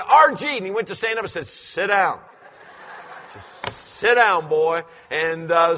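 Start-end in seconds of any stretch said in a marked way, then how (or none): 0.0-0.6 loud high call of a name; shouted name from the porch; calling son's name. Retold or imitated. Calling out to son. 1.5-4.8 firm order. Retold or imitated. Ordering son to sit.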